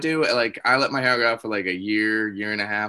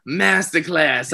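slow drawn out; 2 semitones higher, much slower than usual. Pretend. Repeating answer slowly.

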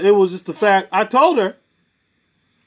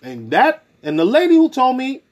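ordinary talk, nothing marked

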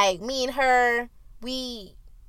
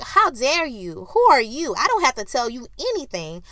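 angry. Retold or imitated. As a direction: put her in her place. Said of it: "I was like".

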